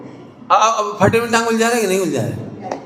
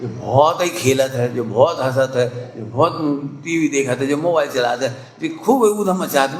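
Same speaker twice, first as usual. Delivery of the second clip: complaining relative; 5 semitones lower than usual. Retold or imitated. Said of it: "तो लोग बताते".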